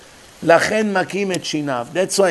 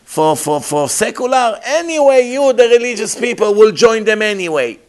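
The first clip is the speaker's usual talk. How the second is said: higher, louder taunting question; mocking challenge; 5 semitones higher, 3 dB louder than usual. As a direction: needle the rabbi with a sneering jab. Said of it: "He asked me to pinch me".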